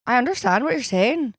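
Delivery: bouncy Irish lilt; Irish accent. Acted. Co-host agreeing about Ireland, Irish accent. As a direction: play it in a put-on Irish brogue. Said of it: "I love the Irish accent".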